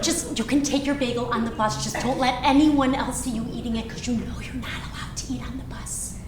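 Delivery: soft, confiding, sinking to a whisper; hushed coaxing. Acted. Mother letting daughter sneak bagel onto bus, hushed coaxing. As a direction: share a small secret permission. Mother quietly coaxes child off.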